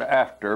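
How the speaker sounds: "after," set apart with a firm fall; stress on after. Shown as a demonstration. Preacher stressing the key word to his hearers, "after," emphasized. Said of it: "I place a great stress on the word".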